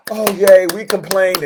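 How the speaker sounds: mock cheer. People pretending complaining paid off, mock cheerful yay. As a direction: fake delight, a touch hammed-up.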